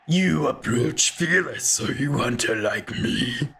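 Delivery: a lightly voiced old hunter, raspy and half-whispered; a hint of a weathered hunter, rasping in a breathy half-whisper. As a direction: growl it out like an old hunter in the dark. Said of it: "I can't do this voice for very long".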